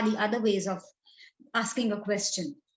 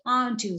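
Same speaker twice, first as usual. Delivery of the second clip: "aren't you?" set apart by a pause and leaned on; pause, then hit "aren't you?" firmly; emphatic tag question "aren't you?" after a break; stress on aren't you. Shown as a demonstration. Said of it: "and emphasizing that".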